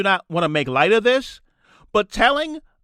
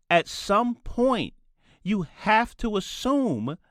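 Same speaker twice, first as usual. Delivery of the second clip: slow, each word set apart; slow emphatic quote; 5 dB quieter, slower than usual. Retold or imitated. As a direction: spell it out slowly for the listener. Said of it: "If you listen closely".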